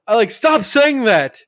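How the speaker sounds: high, slow mock protest; imitated scream. Ned begging kids to stop, mild mock yell. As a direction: draw out the high-pitched complaint. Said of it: "scream at us and be like".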